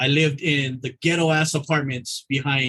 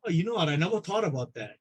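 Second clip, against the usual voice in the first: sheepish patient; 6 dB quieter than usual. Retold or imitated. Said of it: "he's like".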